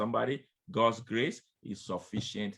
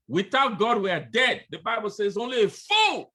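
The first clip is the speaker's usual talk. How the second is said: louder, higher fiery preaching; preaching at full force; 10 semitones higher, 8 dB louder than usual. Acted. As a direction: hammer it home to the congregation. Preaching climax.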